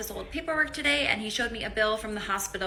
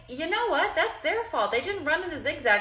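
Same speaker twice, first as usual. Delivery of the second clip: smug know-it-all; 6 semitones higher than usual. Retold or imitated. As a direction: act certain the victim was a fool. Mock verdict on movie victim.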